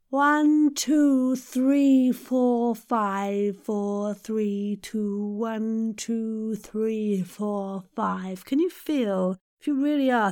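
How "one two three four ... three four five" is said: counting with a yawn-open throat. Shown as a demonstration. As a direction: hold the yawn position and count, letting the pitch settle. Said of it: "with that open throat".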